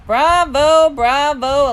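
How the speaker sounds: high, loud acclaim; hearty bravo. A narrator's reading. Teacher applauding his two actors, hearty cheering. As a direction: proclaim it grandly.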